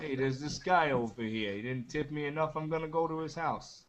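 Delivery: mock American accent. Playing an American angry over tipping, mock American accent. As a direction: put on an American complaining about a tip. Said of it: "if I go to America".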